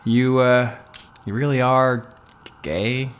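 halting before a questioning "gay"; hesitate, then set "gay" apart as a question; hesitant, loaded question. Acted. Man doubts the woman's coming out, halting and loaded on "gay". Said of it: "Why do you say gay like that?".

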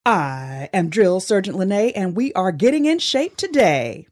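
staccato drill sergeant bark, loud. Acted. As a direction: clip every word like an order. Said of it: "I need a little more staccato in your voice".

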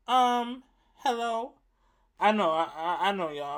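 a deliberately bad, half-hearted pop star impression; bad impression of a pop singer. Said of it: "I'm doing a bad Michael Jackson impression".

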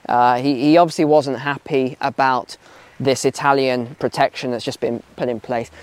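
ordinary talk, nothing marked

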